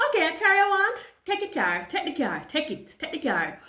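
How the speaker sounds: high and loud, then settling; retold frightened surrender, calming down; panicked giving in. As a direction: hurry to hand it over, fading. Handing the car to gunman.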